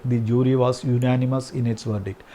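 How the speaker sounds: very slow, word by word; slow dictation. Shown as a demonstration. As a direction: read it out slowly for the class to write. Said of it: "example read slowly". (വളരെ പതുക്കെ, വാക്കോരോന്നായി)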